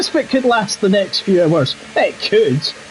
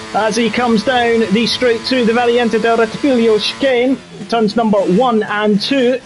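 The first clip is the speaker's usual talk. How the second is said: lap commentary. Acted. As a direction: lively race commentary over the onboard lap.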